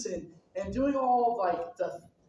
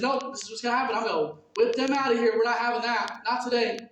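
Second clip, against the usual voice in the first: angry Jesus; 3 semitones higher, 6 dB louder, faster than usual. Acted. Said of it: "and he goes".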